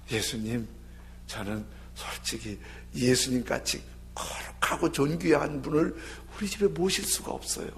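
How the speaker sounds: soft, hesitant humility; humble plea. Acted. Centurion humbly tells Jesus he cannot host him, softly deferential. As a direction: speak low and deferential.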